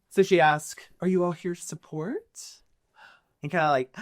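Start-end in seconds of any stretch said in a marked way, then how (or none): 1.0-2.6 higher, gentle questioning tone; reassuring. Acted. Lady Isolde asking the party, reassuring. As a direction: ask kindly, inviting them in. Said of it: "Her voice ... is very reassuring".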